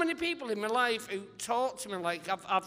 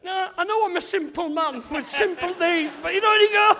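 much higher and louder, words broken by laughter; laughing while talking; 10 semitones higher, 11 dB louder than usual. Real, not acted. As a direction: push the words out through real laughter. Cracking up at his own story.

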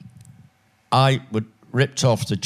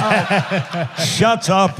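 exasperated friend; 9 semitones higher, much slower than usual. Retold or imitated. Quoting Ray, high.

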